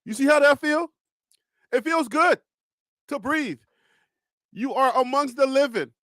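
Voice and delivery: calm the worried fans down like a counselor; soothing pep talk. Real, not acted. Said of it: "why are you talking like this?".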